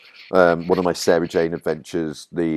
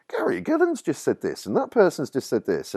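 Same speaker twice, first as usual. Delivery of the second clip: high-pitched, urgent, tumbling out; agitated report; 10 semitones higher than usual. Retold or imitated. Tipsy writer rushing to tell Gary, high and urgent. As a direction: blurt it out all at once.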